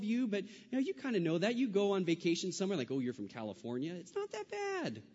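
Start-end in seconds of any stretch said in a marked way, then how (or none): 2.9-5.0 mock sneer. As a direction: squeal it like a snooty tourist. Mocking vacation people's reaction.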